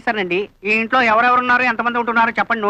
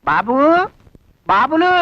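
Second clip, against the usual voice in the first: drawn-out call to the household; slower than usual. Acted. Officer calling to the people of the house, calling out. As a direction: call out for someone to come.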